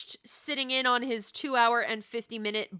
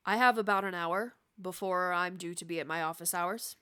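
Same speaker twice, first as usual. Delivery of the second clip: rustling leaves voice; 3 semitones lower than usual. Acted. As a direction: speak like dry leaves stirring in wind. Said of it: "still in that rustling leaves voice".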